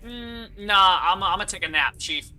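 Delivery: lightly acted brush-off; casual mock refusal. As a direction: wave it off, hammed up a little. Voices Necrons opting to sleep.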